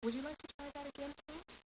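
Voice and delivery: gently ask, lifting up on please; polite parental prompt. Acted. Parent asking a rude child to rephrase, polite prompt.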